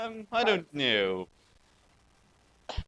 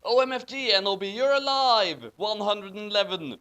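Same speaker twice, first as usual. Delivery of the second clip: 1 excited; 5 semitones higher, 3 dB louder than usual. Acted. Dramatic reading, excited character.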